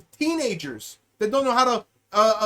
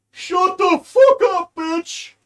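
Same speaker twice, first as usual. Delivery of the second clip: heckler shout; 7 semitones higher, 7 dB louder, slower than usual. Retold or imitated. Heckler cuts off the speech.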